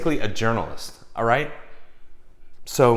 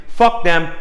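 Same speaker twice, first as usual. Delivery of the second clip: fuck them, punched higher and louder; louder defiance; 5 semitones higher, 5 dB louder than usual. Shown as a demonstration. Showing his energy on the deal, fuck them louder. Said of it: "This is my energy".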